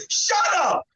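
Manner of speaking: high mock yell, without full volume; retold yell. Golfer answering the fan, retold yelling. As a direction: imitate cutting him off with a yell. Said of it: "I start yelling at the poor guy".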